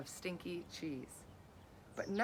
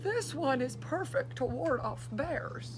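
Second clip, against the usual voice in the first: higher, louder, slow and delighted; pleased little girl; 5 semitones higher, 6 dB louder than usual. Acted. Girl proudly tells her assistant about a part, higher and louder. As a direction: show off a great find to the assistant. Girl picks parts on walk.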